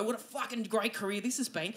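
unintentionally sarcastic, dropped in volume; sarcastic-sounding. Real, not acted. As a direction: praise that accidentally lands as sarcasm. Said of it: "that sounded like I was being sarcastic".

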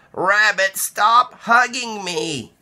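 high, mock-complaining Mouse; squashed Mouse. Mouse being hugged too hard by Rabbit, high and squeezed. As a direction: protest through a tight hug.

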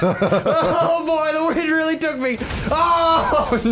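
high-pitched laughing wail; mock distress. Pilot really taken by the wind, laughing mock wail. Pilot blown away in game.

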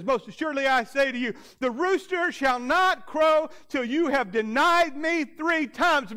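Jesus telling Peter he will deny him; Jesus foretelling. Acted. Preacher voicing Jesus' prophecy.

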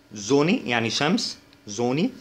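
زوني, first sound like Arabic ز. Shown as a demonstration. Teacher showing German s, voiced z in زوني. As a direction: say زوني opening with a buzzing z. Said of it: "ال Z كده".

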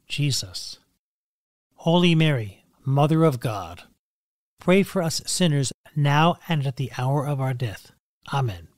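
steady, devout Hail Mary; prayer recitation. Acted. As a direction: pray it evenly and reverently.

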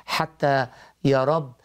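earnest spoken prayer; praying aloud. Acted. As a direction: pray it from the heart. Leads prayer for caller.

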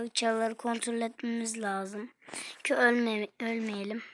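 hushed urgent whisper. Real, not acted. Whispering to teammates mid-match. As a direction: keep it low and tense. Whispered aside while playing.

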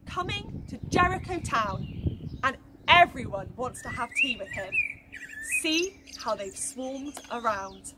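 put-on lively storytelling for children; story narration. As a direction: tell it to the little ones with wonder. Reading a Bible story to children.

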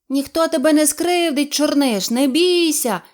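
mild group shout. A narrator's reading. The animals cry out to the kitten. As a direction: comfort him all together. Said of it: "закричали всі".

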